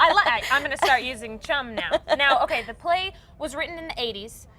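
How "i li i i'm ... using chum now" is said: laughing. Real, not acted. Host amused by new word.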